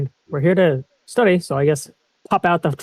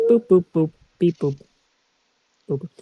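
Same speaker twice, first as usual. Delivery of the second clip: short mouthed scanner beeps; be the gadget beeping as it scans; imitated tricorder boops; 2 semitones lower than usual.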